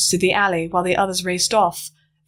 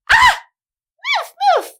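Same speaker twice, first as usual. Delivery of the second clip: high, loud urgent yell; warning the driver as birds dive; shout; 6 dB louder than usual. Acted. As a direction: scream at the driver to dodge. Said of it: "I shouted".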